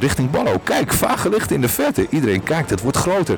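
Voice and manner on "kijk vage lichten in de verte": high-pitched alarmed call; urgent alert. A narrator's reading. Combi spots distant lights and alerts the group, urgent. Spotting approaching lights after a scare.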